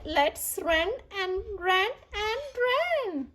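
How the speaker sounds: fourth pumpkin. Acted. Fourth pumpkin voiced in story.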